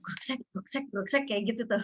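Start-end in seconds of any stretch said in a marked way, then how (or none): 0.0-0.4 spoken scrubbing-like heartbeat noise; swishing two-part heartbeat imitation; imitated fetal heartbeat. Shown as a demonstration. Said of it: "Kayak nyikat gitu suaranya". 0.5-1.2 spoken scrubbing-like heartbeat noise; swishing two-part heartbeat imitation; imitated fetal heartbeat. Shown as a demonstration. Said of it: "Kayak nyikat gitu suaranya".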